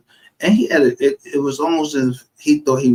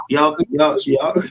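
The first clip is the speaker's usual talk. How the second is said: laughing; slower than usual. Real, not acted. Laughs at the confession.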